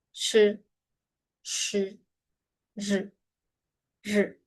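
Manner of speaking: "z", "s", "sh", "r" with a clipped vowel; short Chinese i. Shown as a demonstration. Teacher drilling consonants followed by a short i. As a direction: lean on the consonant, barely any i. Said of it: "procuren que la I sea corta".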